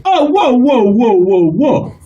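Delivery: put-on scolding parent with African accent; indignant African-accented parent. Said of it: "African children are no different".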